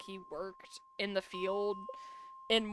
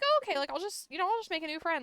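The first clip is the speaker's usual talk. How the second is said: much higher, sing-song forced cheer; mock cheerful self quote; 8 semitones higher, faster than usual. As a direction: overdo the brave little chirp. Replaying her own reaction, exaggerated.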